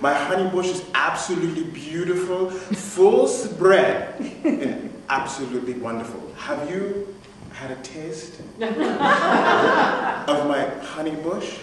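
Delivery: gushing boss. Retold or imitated. Boss gushing about her tea.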